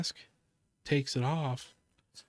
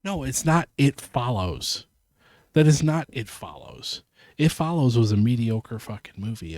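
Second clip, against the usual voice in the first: indignant denial; 8 dB louder than usual. Real, not acted. Streamer insists his film isn't It Follows, indignant. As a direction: shut down the comparison firmly.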